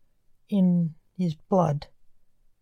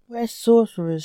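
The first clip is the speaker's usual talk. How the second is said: shouted; 4 semitones higher than usual. Acted. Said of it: "shouted the reaper".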